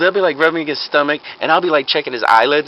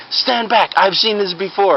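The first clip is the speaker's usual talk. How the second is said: mock heroic doctor; 7 semitones higher, slower than usual. Fake doctor takes charge of crowd.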